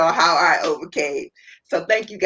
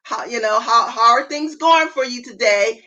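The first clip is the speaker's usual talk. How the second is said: friendly check-in; 5 semitones higher than usual. Shown as a demonstration. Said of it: "call them back and say".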